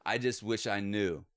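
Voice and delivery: slow, drawn-out words, then a long pause. Retold or imitated. Quoting grandpa on his deathbed, slow with long pause. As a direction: let it hang, slow and heavy. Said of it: "in this long pause".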